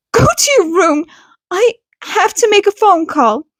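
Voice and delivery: no room for argument; firm order. Acted. Mother sending her son to his room, firm order. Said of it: "It wasn't a request".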